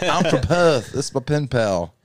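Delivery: put-on Aussie accent; mock Australian vowels. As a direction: introduce yourself in a fake Australian accent. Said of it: "ever said on Australian accent".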